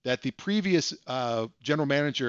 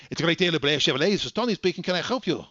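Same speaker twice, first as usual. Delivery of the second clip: cheery phone greeting; 4 semitones higher, faster than usual. Retold or imitated. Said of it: "He'd be like".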